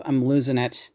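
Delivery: talking around a retainer; wearing a retainer. Real, not acted. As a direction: speak with a retainer in the mouth. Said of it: "this retainer in my mouth".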